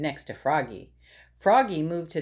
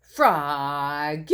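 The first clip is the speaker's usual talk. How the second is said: yell; 3 semitones lower, 3 dB louder than usual. Acted. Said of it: "yelled Dad".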